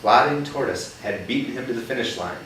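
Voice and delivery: put-on reading a picture book to a child; gentle read-aloud for a young listener; story reading. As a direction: tell it like a storybook.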